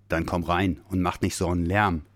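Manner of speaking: a hint of a gruff bear; grumbling bear. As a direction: grumble him inside. Bear grumbles at noisy visitor.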